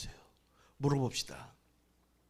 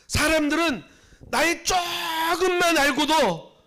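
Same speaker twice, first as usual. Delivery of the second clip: higher and louder, drawn out slowly; preaching build; 11 semitones higher, 7 dB louder, slower than usual. Acted. Pastor stressing to the congregation how people judge. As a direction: stretch it out with emphatic pitch.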